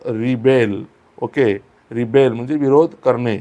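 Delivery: रिबेल stressed on the second syllable, re-BEL; verb stress. Shown as a demonstration. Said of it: "विद्रोह करणे यासाठी होतो".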